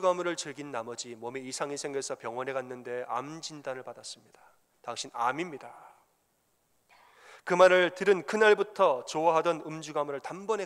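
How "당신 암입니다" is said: whispered diagnosis; doctor quietly telling the patient he has cancer; doctor's whisper. Retold or imitated. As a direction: breathe it, barely voiced.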